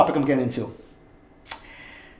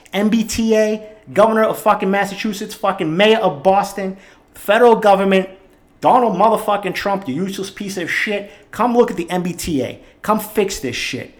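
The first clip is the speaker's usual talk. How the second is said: heated shouting at officials, words punched hard; really letting them have it; worked-up rant; 3 semitones higher than usual. Real, not acted. Ranting podcaster calling out the governor and Trump, furious. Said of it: "When I get hot and I get worked up".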